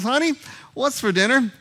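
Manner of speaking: high, loud shout of honey, then what's for dinner; loud yelling call. Retold or imitated. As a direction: yell it right behind her back. Husband right behind her, yelling.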